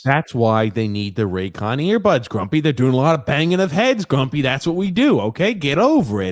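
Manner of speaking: loud, high, hammed-up meathead shouting; mock dumb jock rant. Host mocks football players with a loud, high meathead rant. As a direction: bellow it like a punch-drunk lineman.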